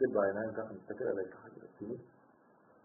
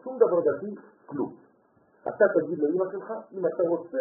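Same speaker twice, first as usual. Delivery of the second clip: passionate urging; 7 semitones higher, 6 dB louder than usual. Retold or imitated. Urging the boy, voice rises.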